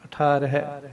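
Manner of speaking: ਅਠਾਰ ਹੈ with a short ਹੈ; short ending. Shown as a demonstration. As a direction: clip the ਹੈ short, not long. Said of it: "ਇੰਨਾ ਕੀ ਬੋਲਣਾ". (ਹੈ ਦੀ ਛੋਟੀ ਆਵਾਜ਼)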